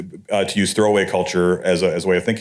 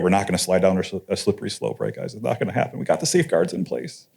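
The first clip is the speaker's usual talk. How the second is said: softer, ironic mock reassurance; sardonically parroting the reassurers; 5 dB quieter than usual. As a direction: toss it off as sarcastic reassurance. Mockingly voices naive reassurance.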